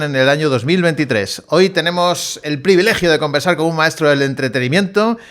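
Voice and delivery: measured presenter read building to a rising cheer; show introduction. Acted. Host introducing Carlos Latre to the audience, announcer-style build. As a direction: present the guest formally, lift high on the name. Host's prepared introduction of guest.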